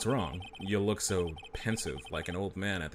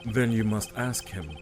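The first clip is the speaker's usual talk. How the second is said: dismissive villain; 4 semitones higher, 3 dB louder than usual. Acted.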